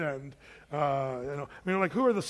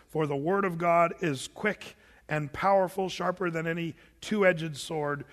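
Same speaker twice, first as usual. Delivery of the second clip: scripture recitation. Acted.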